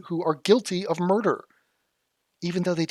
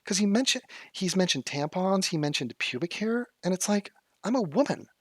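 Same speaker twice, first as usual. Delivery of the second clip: imitating her; 4 semitones higher than usual. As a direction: lightly mimic her earnest complaint. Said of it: "Let me, let me be her".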